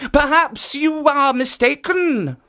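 a lightly voiced kindly guardian; kindly statue voice. Jitso speaks.

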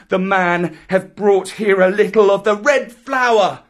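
put-on high, loud, proud jungle boy; defiant Mowgli. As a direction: scornfully lord it over the pack. Voices Mowgli defying the pack.

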